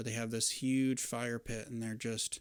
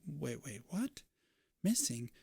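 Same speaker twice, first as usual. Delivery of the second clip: shocked landlady; 3 semitones higher than usual. Acted. Gwen shocked at the news.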